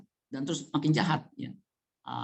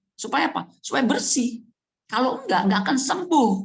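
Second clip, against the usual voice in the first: emphatic; 9 semitones higher, 3 dB louder than usual. Acted. Preacher builds to a point.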